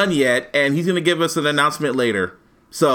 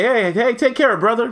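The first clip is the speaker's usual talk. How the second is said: mocking white folks; 8 semitones higher than usual. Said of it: "When white folks say".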